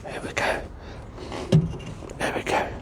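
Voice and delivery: breathy, strained under effort. Real, not acted. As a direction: push the words out while straining. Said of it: "excuse me grunting".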